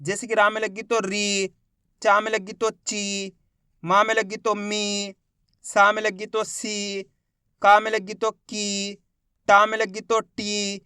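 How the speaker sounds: slow drill, री, ची, मी, सी, की, टी each held; measured teacher's drill, drawing out री through टी; demonstrating long ee. Shown as a demonstration. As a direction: stretch the ee in री, ची, मी, सी, की, टी. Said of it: "बड़ी ई का उच्चारण जोड़ना है".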